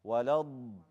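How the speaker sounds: ولا الض- ending on a held, heavy ض; dragged dad. Shown as a demonstration. Teacher repeats for students, dragging the ض in ولا الض-. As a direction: sustain the ض at the end of ولا الض-. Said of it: "Drag the dad".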